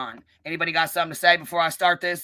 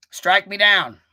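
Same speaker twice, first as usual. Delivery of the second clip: defiant dare; 3 semitones higher, 6 dB louder, much slower than usual. Real, not acted. Daring critics to ban channel.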